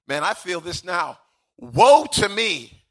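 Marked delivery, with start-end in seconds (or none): 1.6-2.8 anguished cry, higher and louder; Isaiah. Acted. Preacher voicing prophet overwhelmed by God, anguished cry. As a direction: cry it out slowly, drawing the words long. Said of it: "Isaiah says".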